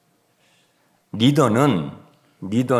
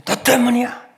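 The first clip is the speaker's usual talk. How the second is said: high-pitched blaming cry; accusing outburst; 13 semitones higher, 5 dB louder than usual. Acted. Slave mentality blaming someone else to survive, accusing outburst. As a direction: throw the blame out sharply and high.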